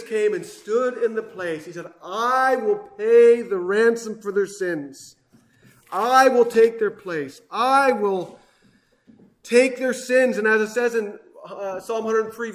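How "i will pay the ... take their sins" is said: slow, forceful preacher's declaration; booming, deliberate vow from the pulpit; loud proclamation. Acted. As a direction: ring out each promise loudly, drawing it out. Preacher proclaims Jesus' promise.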